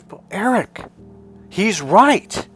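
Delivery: a hint of a mom siding with the teacher; mother's voice.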